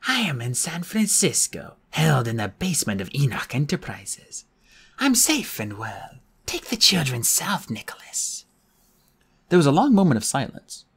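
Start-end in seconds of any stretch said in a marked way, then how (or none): 0.1-8.5 eerie voice lagging the lips; bad movie dubbing. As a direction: speak like badly dubbed film. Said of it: "in a badly dubbed movie".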